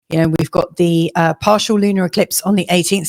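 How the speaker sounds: hoarse, voice giving out; losing voice. Real, not acted. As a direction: talk through a hoarse, tiring voice. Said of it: "Sorry, I'm losing my voice here".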